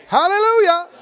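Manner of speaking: high, loud triumphant cry; exultant hallelujah. Real, not acted. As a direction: shout it in joy. Climax of sermon exclamation.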